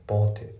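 "ボートイット" linked as English "boughtit"; English "ボートイット" with final T dropped; linking. Shown as a demonstration. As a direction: join "ボートイット" into one short word. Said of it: "そこがまずリンキングで".

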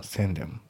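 宣伝 said as sen-den, h dropped; 宣伝 with no h, one word; linked send him. Shown as a demonstration. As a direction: send him run together as 宣伝. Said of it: "Hが抜けて、さらにリンキング".

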